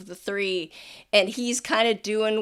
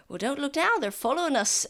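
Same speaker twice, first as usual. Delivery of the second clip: higher-pitched urgent warning; medium soldier's voice; 5 semitones higher, faster than usual. Acted. Medium soldier warning companions of pursuers, urgent higher voice. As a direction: warn in a raised, lightly put-on voice. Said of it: "the medium one kinda go".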